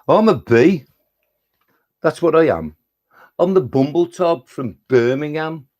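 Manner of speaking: put-on bouncy verse in a Birmingham accent; Brummie bumblebee. Poet as a bumblebee from Birmingham, Brummie verse recital. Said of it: "the Brummy Bumblebee".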